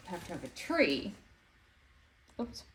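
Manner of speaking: talking around pins in mouth; mouth full of pins. Real, not acted. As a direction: speak with pins between lips. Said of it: "Shouldn't talk with pins in your mouth".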